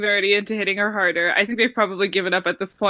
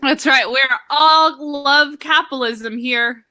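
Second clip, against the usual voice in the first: put-on Russian accent; 2 semitones higher, slower than usual. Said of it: "why are you exerting capitalism in a Russian accent".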